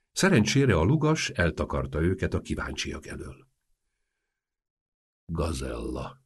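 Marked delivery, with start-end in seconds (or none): 5.3-6.2 low, soft, tender murmur; lovingly. A narrator's reading. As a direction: say it softly like an adoring suitor. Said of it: "mondta Antas szerelmesen".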